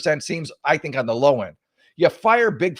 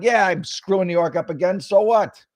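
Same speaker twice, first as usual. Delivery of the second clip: mock de Blasio; 5 semitones higher, 3 dB louder than usual. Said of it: "be like".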